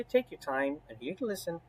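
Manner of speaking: gentle reassurance. Shown as a demonstration.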